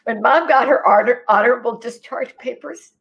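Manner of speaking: fighting back tears, pitch up; about to cry. Real, not acted. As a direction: voice rising, on the edge of tears. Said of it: "I'm gonna cry".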